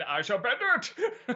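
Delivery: lightly voiced comic villain; a hint of a villain impression; Bane. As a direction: toss off a playful villain quote. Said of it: "I love Bane".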